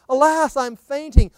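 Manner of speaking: high, loud, slow cry of despair; understated anguished quote; a touch of anguish. Acted. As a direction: wail it as the fainting daughter of Zion. Woman's death cry quoted.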